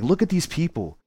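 high, far-off voice, pleading at the creatures; a hammed-up Douglas pointing at them; acting out Douglas. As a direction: voice jumps high to show the horror. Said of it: "And he's like".

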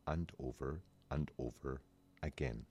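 gentle storybook reading with a light Panda voice; calm, unhurried children's story reading; story narration. A narrator's reading. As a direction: read it softly, like a bedtime story.

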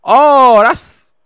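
high, loud startled Oh; flustered teen; taken aback; caught off guard. Retold or imitated. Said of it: "And I was like".

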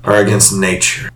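clipped annoyance fading to a hush; irritated. Acted. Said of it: "but a little bit more irritated".

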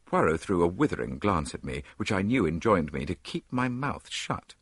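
ordinary delivery

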